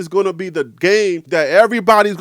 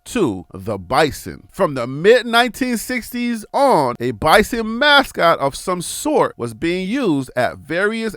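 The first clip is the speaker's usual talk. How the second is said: slow, deliberate documentary-style read; read-aloud history; 2 semitones lower than usual. Acted. Host reading team history to fans, slow measured read.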